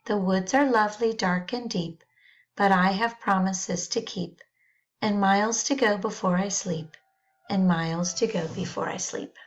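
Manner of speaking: unhurried recitation, the closing line repeated and falling; poem reading. Acted. Reading Frost poem to class.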